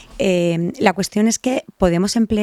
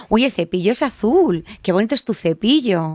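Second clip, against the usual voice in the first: put-on cheerful parent talking to toddler; 3 semitones higher than usual. Shown as a demonstration. Demo of talking to a child.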